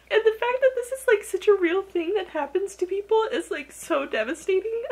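very high, choked voice easing down; real teary, overwhelmed squeak; tearful. Real, not acted. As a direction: talk through tears, pitch squeezed high. Reader moved to tears by story.

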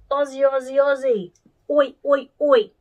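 high, loud crowd-style chant; playful rallying chant with punched shouts; Aussie war cry. Pretend. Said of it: "Bit of an Aussie war cry".

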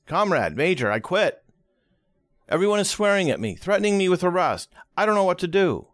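high, fast, desperate pleading; a frantic operator at breaking point; panicked. Acted. Panicked telephone operator quits.

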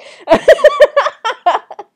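loud, high cackling laugh; loud laughter. Real, not acted. Cracking up after the spaghetti joke, loud high laugh. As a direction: burst out laughing hard.

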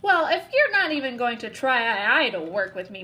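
whining. Acted. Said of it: "Mac whined".

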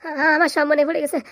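slow, tearful cry of sudden remembering; tearful wail. Acted. Son suddenly remembering his lost wife, tearful wail. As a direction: wail it out slowly through tears.

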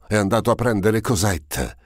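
high-pitched, elated certainty; radiant, excited cry; overjoyed exclamation. A narrator's reading. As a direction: proclaim it with rising joy. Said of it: "Una gioia inaudita si diffuse".

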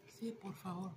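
breathy whispered yes please. Retold or imitated. Girl in pain whispering thanks for a mint, whispered.

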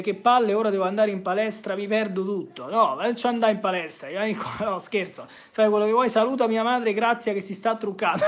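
ordinary delivery

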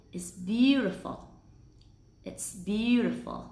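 "it's" with a brief stop, slow "beautiful"; stopped t in it's. Shown as a demonstration. Teacher giving an example, slow careful "it's". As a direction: slowly model "it's", t stopped before the s. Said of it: "Các bạn phải ngắt".

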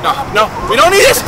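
panicked pleading. Real, not acted. Panicking as ride tips over.

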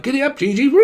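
very high mock giddy-up call; mock roadman. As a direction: squeal it like a cheeky roadman.

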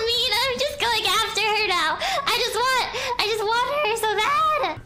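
whiny fake cry. Real, not acted. Whining laugh-cry after escape.

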